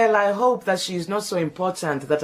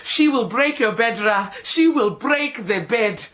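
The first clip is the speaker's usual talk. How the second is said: scolding shout. Acted. Maid to Ra scolding him about the marriage. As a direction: berate him for his folly. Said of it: "Do not shout like that".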